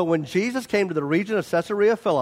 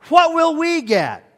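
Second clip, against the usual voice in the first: pleading question; 10 semitones higher, 5 dB louder than usual. Acted. Peter's complaint voiced in sermon.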